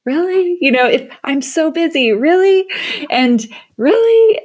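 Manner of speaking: high, rising incredulous "really?"; mock disbelief. Arguing with her own inner whisper, incredulous. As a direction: push back in disbelief, pitch climbing.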